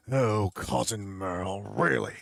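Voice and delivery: slow, weary, exasperated drawl; annoyed Sideshow Bob. Retold or imitated. Bob dismissing his cousin's news, slow exasperated drawl. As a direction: sigh it out, deeply unimpressed. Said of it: "He goes".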